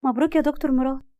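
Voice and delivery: bright, forced congratulations; a touch of false sweetness; fake smile. Rahma faking congratulations to the couple. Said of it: "وهي بتبتسم بتصنع".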